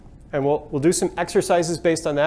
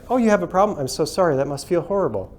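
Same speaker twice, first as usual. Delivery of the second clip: scripted customer service sympathy. Retold or imitated. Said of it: "customer service is trained".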